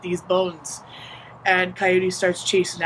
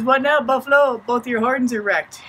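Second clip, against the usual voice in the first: raised voice, lightly crowing at a foe; cocky taunt; 4 semitones higher than usual. Acted. Coyote jeering at Buffalo from the treetop, cocky taunt. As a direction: voice a smug trickster's jeer.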